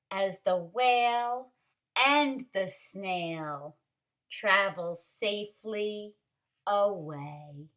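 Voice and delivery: measured, expressive picture-book reading; story narration. A narrator's reading. Teacher reads a snail story to kindergarteners, expressive narration. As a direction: read it to little ones, pausing after phrases.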